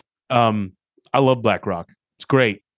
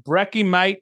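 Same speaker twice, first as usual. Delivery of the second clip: playful, higher-pitched Australian slang; Australian accent; 6 semitones higher, slower than usual. Pretend. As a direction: put on a light Australian accent. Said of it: "Like an Australian".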